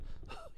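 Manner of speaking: short breathy exhale, no voice; imitated exhale. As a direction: blow out air like a squeezed caver. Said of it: "breathe out".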